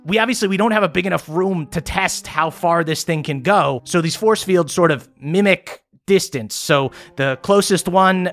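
rising, defensive ramble; Stella explaining. Acted. Stella justifying the lab to the players, getting defensive. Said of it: "she goes".

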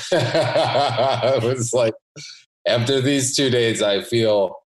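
talking through real giggles; chuckling at his own story; laughing. Real, not acted. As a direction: laugh your way through the memory. Laughing while recalling naked run.

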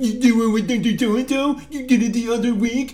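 shrill-pitched, loud mocking jeer of a doctor. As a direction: imitate a bullying doctor, high and loud with jeering ohs. Mocking angry doctor yelling in face.

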